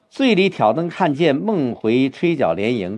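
linked lines, then a clear pause; phrased recitation. Shown as a demonstration. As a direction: read it as one tight unit and then stop. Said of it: "这一个小层次完了以后应该有个停顿".

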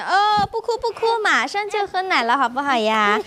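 high lilt easing downwards; soothing coo. Acted. Mother promising crying baby milk, soothing coo.

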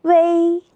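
"微" as long wēi, high and level; first-tone "微", drawn out for learners; tone drill. Shown as a demonstration. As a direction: hold "微" on one high flat note, first tone. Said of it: "我们一起读一读".

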